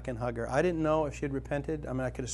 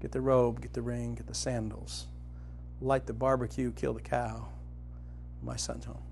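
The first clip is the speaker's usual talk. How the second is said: tender father; 2 semitones lower, 4 dB quieter than usual. Retold or imitated. Father orders the feast.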